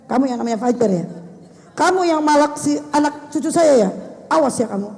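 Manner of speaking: mild mock scold of a child; scolding mother. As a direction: warn the boy off like an angry mother. Jadi kita harus dengan kasih sayang.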